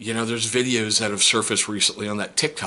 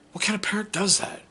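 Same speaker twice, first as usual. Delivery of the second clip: incredulous whisper; 10 semitones higher than usual. Real, not acted. Outraged aside on the parent.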